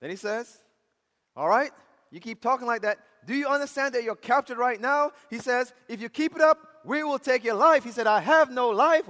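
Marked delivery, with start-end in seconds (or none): 1.4-5.1 loud, high acted judge; preacher playing a riled official; angry threat. 5.9-7.8 loud, high acted judge; preacher playing an angry official; death threat. 8.1-9.1 loud, high, emphatic refusal; preacher's impassioned retelling of defiance; defiant declaration. Retold or imitated. Convert defiantly answers.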